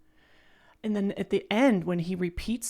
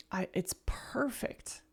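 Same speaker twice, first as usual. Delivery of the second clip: whispered in awe, a little higher; awed whisper; 4 semitones higher, 6 dB quieter than usual. Real, not acted. Reacting to the song, awed whisper. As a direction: breathe it out, stunned by the song.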